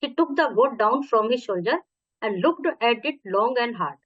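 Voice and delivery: slow, careful read-aloud for pupils; story reading. A narrator's reading. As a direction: read it to the class, word by word. Teacher reads English story aloud. (धीमे स्वर में कहानी पढ़ना)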